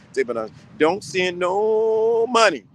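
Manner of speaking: slow, loud, every word leaned on; firm warning. Shown as a demonstration. A father warning the men listening, slow and loud. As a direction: lay down the law, slowly. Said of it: "let me say this".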